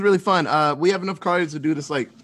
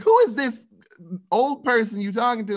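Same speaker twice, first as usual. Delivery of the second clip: raised, higher mock-indignant voice; imitating mad mom; 6 semitones higher than usual. Son retelling mom's question about his caller, mock angry. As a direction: demand it like an outraged mother. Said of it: "She was so mad".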